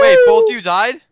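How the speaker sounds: high astonished question; surprised. Real, not acted. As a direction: gasp out the question. Surprised at deaths.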